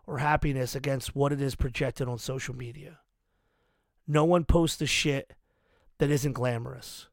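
measured read of a written message; reading aloud. Real, not acted. Host reading listeners a holiday message they wrote, measured read-aloud. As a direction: read it out in phrases, pausing between them.

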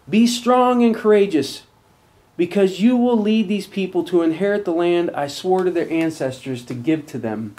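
firm, rising scripture read. Acted. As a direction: proclaim the verse to the congregation. Reads scripture aloud.

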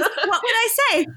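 high, giggling Caroline quote; laughing through the quote. Retold or imitated. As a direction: laugh as you play coy. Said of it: "And she says".

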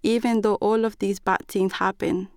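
plain reading voice

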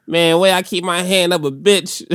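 lightly voiced smooth pimp; a hint of slick pimp talk; smooth flashy pimp swagger. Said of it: "I could just do pimp voice".

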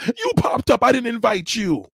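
high, sudden loud outburst; shrill outburst. Real, not acted. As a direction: jump way up in indignation. Ranting at troll.

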